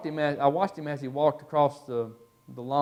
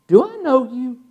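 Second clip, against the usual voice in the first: loud, high-pitched challenge of a cop; stern police officer; 9 semitones higher, 9 dB louder than usual. Retold or imitated. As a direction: confront him like an officer who recognises a suspect. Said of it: "giving him that police officer look".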